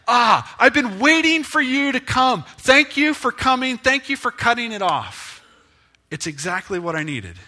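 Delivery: loud, high, gushing thanks; the plant welcomes the pruner, loud and high; grateful plant. Acted. Plant greeting the gardener with loud, high gratitude. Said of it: "that plant's like".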